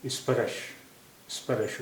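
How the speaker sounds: "स्पर्श" said spa-rash with a full a after र; "स्पर्श" as sparash; wrong full-ra reading. Shown as a demonstration. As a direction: open "स्पर्श" up, r then a then sh. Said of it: "पूरा रा होता".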